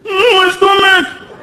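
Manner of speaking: put-on high, slow whimpering kid voice; whiny sick kid. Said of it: "He's in the bathroom crying".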